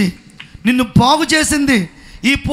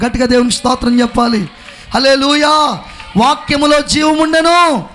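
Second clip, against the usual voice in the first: preaching. Acted. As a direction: drive each phrase home to the crowd. Preaching climax to congregation.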